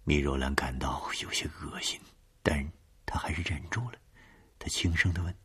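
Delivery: hushed storytelling whisper; whispered narration. A narrator's reading.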